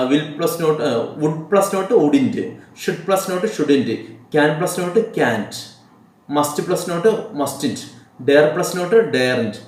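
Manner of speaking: each word spaced out slowly for writing down; slow dictation. Shown as a demonstration. Teacher dictating contraction rules to students, very slow and deliberate. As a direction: read it out slowly so students can copy.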